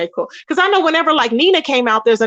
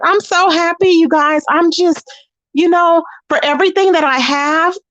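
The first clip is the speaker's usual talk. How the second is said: higher-pitched mock gushing; feigned happiness; 5 semitones higher than usual. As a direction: imitate someone insisting she's happy. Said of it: "trying to pretend she was so happy".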